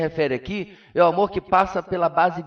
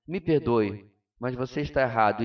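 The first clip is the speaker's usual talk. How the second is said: gentle tone; 4 semitones lower, 4 dB quieter than usual. Shown as a demonstration. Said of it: "A única diferença é a entonação de voz".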